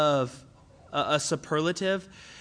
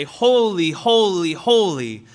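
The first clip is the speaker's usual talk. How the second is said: emphatic holy; 6 dB louder, slower than usual. Retold or imitated. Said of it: "hear their songs and they say".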